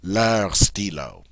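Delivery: leur stylo said slowly, open French vowel. Shown as a demonstration. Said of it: "their pen".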